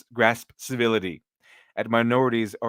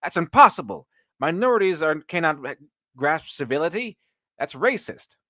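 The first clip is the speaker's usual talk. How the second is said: mocking outraged critic; 5 semitones higher than usual. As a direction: parody an indignant critic, hammed up. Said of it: "reads that and says".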